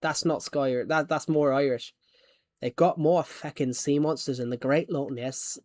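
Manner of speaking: lightly put-on Irish accent. Shown as a demonstration. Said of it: "I can do it in Irish".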